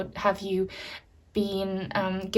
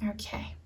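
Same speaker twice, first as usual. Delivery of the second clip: long audible out-breath, then a whispered okay; grounding breath; 16 dB quieter than usual. Real, not acted. Reader grounding herself before the reading, sighed whisper. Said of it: "I need to take my grounding breath".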